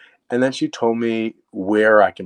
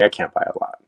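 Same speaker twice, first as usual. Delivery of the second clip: whispered worry; faster than usual. Retold or imitated. Worried thought about small budget.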